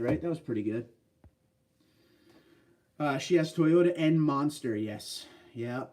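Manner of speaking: ordinary talk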